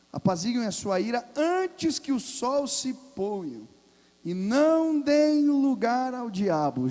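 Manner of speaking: slow, rising to a loud high proclamation; slow building scripture proclamation; forceful scripture reading. Acted. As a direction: read it out as a stern warning, building.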